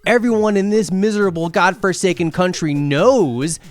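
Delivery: loud, high, slowing into worshipped is money; indignant preacher-like build; building rant. Acted. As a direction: hammer home the final accusation. Climax of angry rant.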